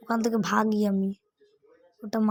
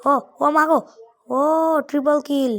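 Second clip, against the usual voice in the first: higher and louder excited yell; excited shout; 4 semitones higher, 4 dB louder than usual. Real, not acted. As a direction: yell it out in thrilled surprise. Near death then triple kill.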